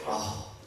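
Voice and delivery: short huffed oh; exasperated "oh". Shown as a demonstration. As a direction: huff out a fed-up oh. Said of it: "Don't even say".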